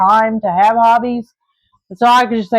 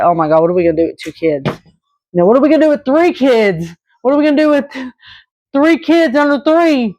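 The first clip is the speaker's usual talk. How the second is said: shocked worry; 4 semitones higher than usual. Retold or imitated. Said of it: "jaw dropped, shocked".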